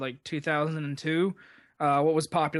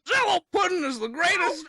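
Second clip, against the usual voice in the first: Bill Cosby impression; 8 semitones higher than usual. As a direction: go full Cosby, laughing through it. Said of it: "Bill Cosby".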